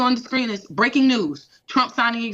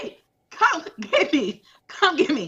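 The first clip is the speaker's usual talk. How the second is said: laughing plea; 4 semitones higher than usual. Retold or imitated. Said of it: "I told my husband, I said".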